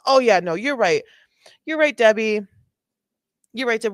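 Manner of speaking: sarcastic, mocking the arrestee; sarcastic mock agreement. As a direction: fake agreement dripping with sarcasm. Mocking the arrested woman's logic.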